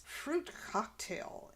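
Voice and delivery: slow, whispery mock Middle Eastern accent. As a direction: drag out each word in a put-on Middle Eastern accent. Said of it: "in his Mid East accent".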